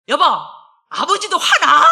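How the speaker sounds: laughing, play the husband's indignant reply; imitating husband. Pastor wife mimics her husband protesting, laughing loudly. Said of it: "이래".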